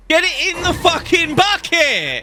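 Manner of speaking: high, slow, drawn-out shout; exasperated yell. Real, not acted. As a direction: yell at the bungling robbers, half laughing. Yells at bungling robbers on video.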